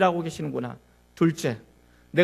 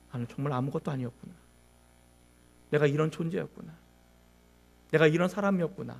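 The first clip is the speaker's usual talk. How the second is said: hushed realization; 3 semitones lower, 9 dB quieter than usual. Acted. Jonah's quiet self-realization in the fish.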